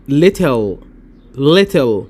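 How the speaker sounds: little with a crisp t, British. Shown as a demonstration. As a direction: say little with a clear t, British accent. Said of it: "والتانية بالبريطاني". (little بالبريطاني)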